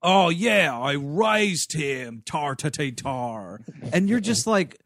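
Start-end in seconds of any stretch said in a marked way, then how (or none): 0.0-3.6 slow, hammed-up Irish brogue; mock Irish crime boss trailing into gibberish; Russell Crowe. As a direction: drawl a terrible Irish gangster accent. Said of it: "finally Russell Crowe's like".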